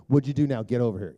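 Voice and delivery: a hint of an exasperated dad snapping; half-hearted scold, "What'd" punched; mock scolding. Preacher imitating a harsh father scolding his son, mock scolding. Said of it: "can you imagine if I did that to Toby".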